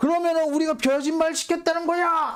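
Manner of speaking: high-pitched, indignant, flaring-up outburst. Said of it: "검찰이 발끈하면서 뛰어나옵니다".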